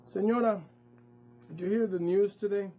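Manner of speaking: a threat dressed up as small talk; sinister official. Acted. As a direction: official taunting the mother with a veiled threat. Menacing official addresses mom.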